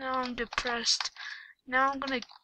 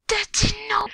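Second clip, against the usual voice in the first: mock cry; 10 semitones higher, 5 dB louder than usual. Despair after hat missed.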